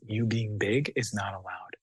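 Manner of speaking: hushed, slow whisper; a slow, hushed warning. Retold or imitated. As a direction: whisper it like a family rule. Family silencing the child's voice.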